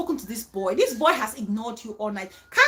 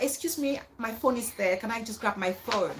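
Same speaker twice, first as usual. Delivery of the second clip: softer, courteous ask; polite request; 3 semitones lower, 5 dB quieter than usual. Shown as a demonstration. Showing Annie how a classy lady asks for her seat, softer. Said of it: "what you could say is that".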